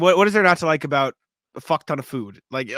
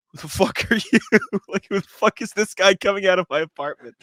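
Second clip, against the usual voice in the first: higher-pitched mock alarm; startled roommate; 5 semitones higher than usual. Roommate meeting a stranger leaving the apartment, startled and indignant. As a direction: imitate someone confronting a stranger at the door.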